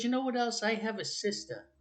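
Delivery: put-on a small boy eagerly blurting out news; child voice. Child reveals hidden memory.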